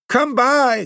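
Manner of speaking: very high, shrill goblin hawking, falling at the end; goblin cry. Acted. Goblins calling to the maids to buy fruit, shrill high cry. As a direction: screech it like a goblin peddler luring buyers. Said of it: "called the goblins".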